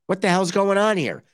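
mock disbelief. Shocked by ligament news.

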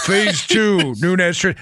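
breaking into laughter mid-line; laughing through the words. Real, not acted.

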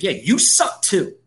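drawn-out, sneering put-down; slow dismissive retort. Retold or imitated. Host answering bandwagon fans, slow and scornful. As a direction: drag it out with contempt. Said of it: "It's like".

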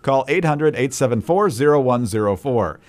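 upbeat radio call to action; ad read. Real, not acted. Co-host giving listeners the promo code, ad read. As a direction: steer listeners to the offer, item by item.

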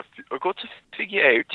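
attempted British landing on South African; accent slipping South African. Shown as a demonstration. Practising an accent aloud, accidental South African. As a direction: aim British, hit South African vowels. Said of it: "No, that's like South African".

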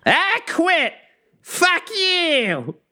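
very high, shrill quitting shout. Acted. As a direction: yell it over your shoulder as you walk out. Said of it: "who looks back at you and says".

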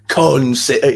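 drawn-out Cockney singing; Cockney accent. Shown as a demonstration. Showing how the audition song was sung, Cockney accent. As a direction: sing it slowly with a Cockney accent. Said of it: "like, in a Cockney accent".

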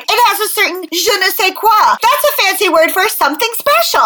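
a hint of a show-off child explaining French; Fancy Nancy. Host mimicking the cartoon girl showing off French phrases, pretentious child voice. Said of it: "Fancy Nancy is always like".

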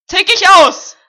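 loud, slow, high mock freakout; mock outburst. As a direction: threaten to lose it theatrically. Mock outburst demanding a name.

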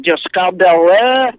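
name said in mock French; Frenchify the name comically; silly put-on French accent; bogus French accent. Shown as a demonstration. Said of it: "it's really fun to do a bogus French accent".

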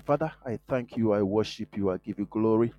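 usual speaking voice

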